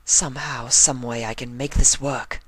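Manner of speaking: a hint of Rarity resolving; lightly voiced Rarity. Rarity willing herself on, lightly voiced.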